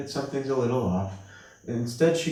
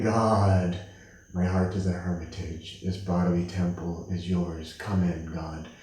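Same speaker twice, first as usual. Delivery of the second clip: prayerful devotion; 4 semitones lower than usual. Retold or imitated.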